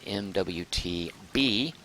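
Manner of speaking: halting, slow dictation to oneself; drawn out with gaps between the pieces; slow word-by-word. Real, not acted. Notes the vote down word by word.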